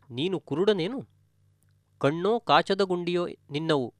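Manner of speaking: lightly acted angry rebuke from the son; son scolding. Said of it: "ಎಂದು ಬೈಯುತ್ತಿದ್ದಾನೆ". (ಮಗನ ಸೌಮ್ಯ ಅಣಕು ಬೈಗುಳ)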